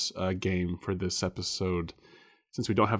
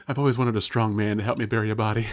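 fast, louder, hammed-up romantic gush; mock swooning voice; 4 dB louder, faster than usual. Voicing the escort's romantic line.

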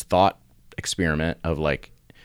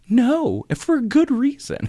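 much higher, pointed no; emphatic refusal; slower than usual. Retold or imitated. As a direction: refuse it sharply, pitched high. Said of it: "I'm like".

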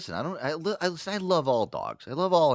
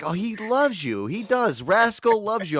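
higher-pitched, gushing reassurance; imitated fiance; 9 semitones higher, slower than usual. Brother's fiance assuring him the dog loves him, gushing. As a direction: insist on it in a put-on higher voice. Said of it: "my brother's fiance will look at me and be like".

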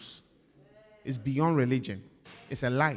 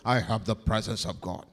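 lower, pompous put-on voice; mock boaster; 7 semitones lower than usual. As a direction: parody a showy believer. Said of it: "If you claim".

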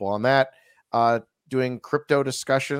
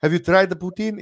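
Canadian voice; 6 semitones higher, 4 dB louder than usual. Retold or imitated. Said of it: "'cause that's how they speak".

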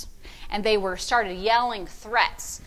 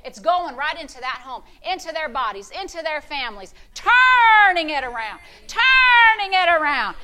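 rejoice over the situation; joyful praise; 4 semitones higher, 3 dB louder than usual. Retold or imitated. Preacher praising God in her room, building joyfully. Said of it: "I start praising".

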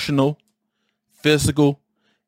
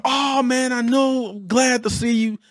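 higher, mock fake-friendly greeting; 13 semitones higher, slower than usual. Ex-boss pretending to be glad to see him, mock fake. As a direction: sound like a three dollar bill, insincere. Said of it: "Fake, fake, fake".

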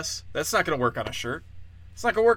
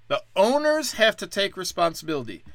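higher, pompous mock outrage; mock preachy pundit; 6 semitones higher than usual. Comic mocks commentators blaming owners, pompous tone. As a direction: parrot the pundits with mock righteousness. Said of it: "all anyone's saying is".

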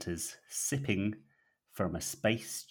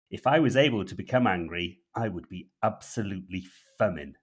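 calm operative; 3 dB louder than usual. Acted. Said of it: "says the operative calmly".

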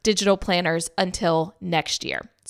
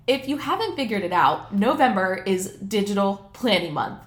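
underwater. Real, not acted. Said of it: "kinda sounds like I'm underwater".

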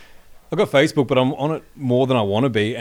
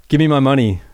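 put-on old man voice demanding his money; a hint of a deranged old caller; grumpy old man; 4 semitones higher, 8 dB louder than usual. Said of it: "put on this old man voice".

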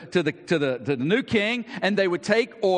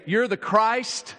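solemn declaration; 2 semitones higher, slower than usual. Retold or imitated. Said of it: "Matthew remembers Peter saying".

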